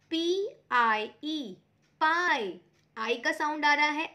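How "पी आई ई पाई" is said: very slow letters, then पाई louder; spelling out slowly. Shown as a demonstration. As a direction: spell it out, land on the word. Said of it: "second example देखिए". (अक्षर धीरे, फिर पाई जोर से)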